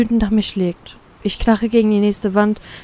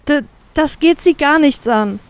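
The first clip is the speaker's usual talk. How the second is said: higher-pitched, stammering protest; defiant retort; 6 semitones higher than usual. A narrator's reading. Captive answering a prying captain, defiant. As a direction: stumble on the first word, then push back. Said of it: "entgegne ich ihm etwas lauter".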